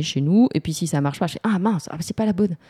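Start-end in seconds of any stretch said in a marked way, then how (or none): 1.4-2.6 mock dismay. Acts out a failed spell.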